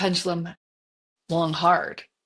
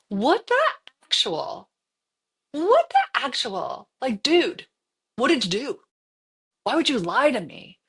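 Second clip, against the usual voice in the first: retold angry rant; 6 semitones higher than usual. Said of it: "and I was so mad".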